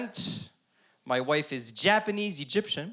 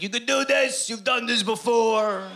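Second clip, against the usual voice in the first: a lightly voiced birth coach, higher; encouraging doula; 7 semitones higher, 3 dB louder than usual. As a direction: cheer her on gently like a doula. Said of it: "she would say things to my wife like".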